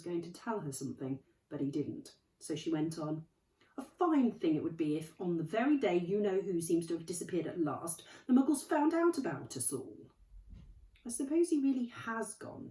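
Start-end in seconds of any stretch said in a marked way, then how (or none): 3.8-12.7 worried McGonagall. Acted.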